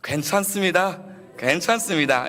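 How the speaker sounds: open, cheerful reassurance; friendly smiling greeting; smiling broadly. Shown as a demonstration. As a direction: say it through a big smile. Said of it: "활짝 웃으시면서".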